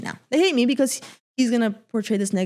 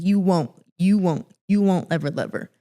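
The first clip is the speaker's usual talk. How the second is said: retold menacing threat. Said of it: "he was, like, in my face".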